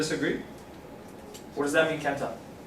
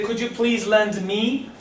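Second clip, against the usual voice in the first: polite request; 6 semitones higher, slower than usual. Shown as a demonstration. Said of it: "I would say".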